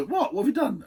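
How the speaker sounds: put-on high, aghast German-accented-free cry of dismay; mock shock. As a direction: act out the horrified Swiss asking what was done. Swiss reacting to watch blunder.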